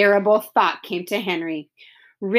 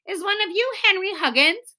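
put-on big boy; 9 semitones higher than usual. Strange boy asks, higher.

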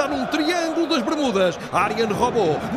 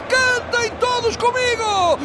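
shouted call. Acted. Calling crowd to sing.

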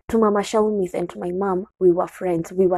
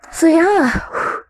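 much higher, laughing through tears; 10 semitones higher, 4 dB louder than usual. Real, not acted. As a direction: laugh it off nervously. Laughing through emotional crisis.

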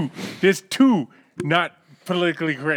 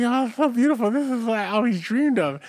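midget voice; 7 semitones higher than usual. Acted. Midget voice in joke.

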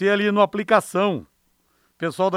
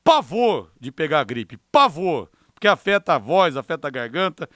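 muffled through a face mask; talking behind a face mask; 2 semitones lower than usual. Real, not acted. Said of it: "eu tô falando de máscara aqui".

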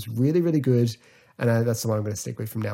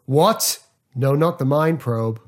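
shocked; 3 semitones higher, 4 dB louder, slower than usual. Retold or imitated. Actor shocked at the threat of the mind probe. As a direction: recoil in alarm at the threat. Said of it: "one of my favourite line deliveries".

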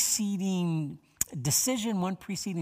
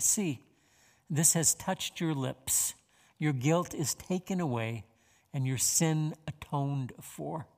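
scripture reading. Acted. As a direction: let each phrase of scripture land. Reads Isaiah six aloud.

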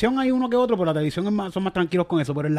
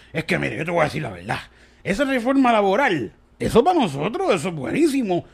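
tipsy boss; 3 semitones higher than usual. Retold or imitated. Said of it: "estaba medio picado ya y me dice".

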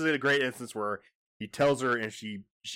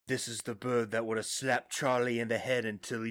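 laughing mock quote; 3 dB louder than usual. Mock line, laughing through it.

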